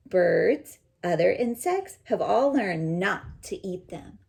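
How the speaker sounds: clear, even read-aloud voice; storybook reading voice; reading to children. Acted. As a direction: read the book to the class. Reads picture book aloud.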